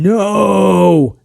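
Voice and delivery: drawn-out mock cry of "No!"; retold yelling. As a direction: replay your dismayed yell, held back. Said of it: "I'm ye-, literally yelling".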